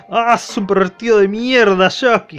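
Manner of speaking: loud indignant yell; mock furious girl; angry outburst. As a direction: snap at the pervert. Keiko angrily recognizes him.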